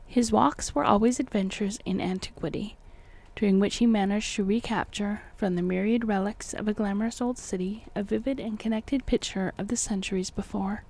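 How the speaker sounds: measured, formal audiobook reading; deliberate literary narrator delivery; story narration. A narrator's reading. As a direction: read the old tale with careful phrasing. Reads the book aloud.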